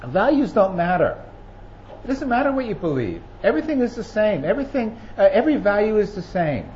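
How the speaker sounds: lightly voiced, dismissive politicians shrugging off values; mock politician's relativism. Preacher mocking what politicians tell people, airy dismissive tone. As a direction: toss it off like nothing matters. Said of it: "they're saying to people".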